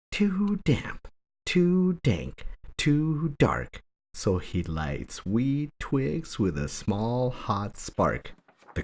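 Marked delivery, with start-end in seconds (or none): 0.1-3.8 high little squeaking mouse voice; squeaky mouse. A narrator's reading. Tiny mouse grumbling about the cold cave, high and squeaky. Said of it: "Mouse squeaks".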